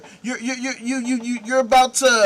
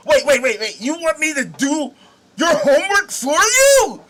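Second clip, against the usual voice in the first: outraged shouting at a customer, a touch faster; furious salesman. Acted. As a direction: berate the customer for asking. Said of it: "that's how you sound".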